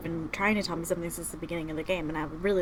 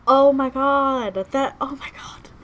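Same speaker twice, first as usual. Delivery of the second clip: high, stretched-out outburst of shock; real emotional wail, easing in volume; overwhelmed, near tears; 6 semitones higher, 8 dB louder than usual. Real, not acted. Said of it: "I don't wanna cry".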